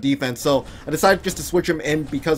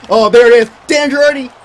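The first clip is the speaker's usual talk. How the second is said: high, loud winning cheer; triumphant shout; 7 semitones higher, 8 dB louder than usual. Real, not acted. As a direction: cheer the overtime winner. Overtime winner.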